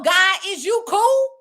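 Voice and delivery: squeaky disbelieving ask to God; casual talk to God. Retold or imitated. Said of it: "I done said before".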